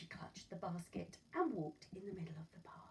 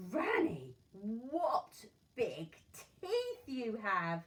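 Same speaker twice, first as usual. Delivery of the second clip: put-on frightened girl; 3 semitones higher, 9 dB louder, much slower than usual. Girl sees the teeth.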